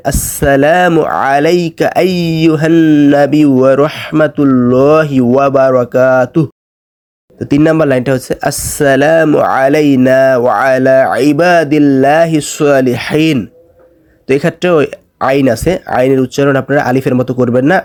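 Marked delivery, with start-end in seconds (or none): 0.1-6.5 slow, carefully articulated Arabic recitation; correct recitation. Shown as a demonstration. Teacher showing the pure pronunciation, slow recitation. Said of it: "শুদ্ধ উচ্চারণটা এইরকম হবে". 8.5-13.4 slow, melodic Arabic recitation; careful recitation. Shown as a demonstration. Teacher reciting the second line, slow recitation.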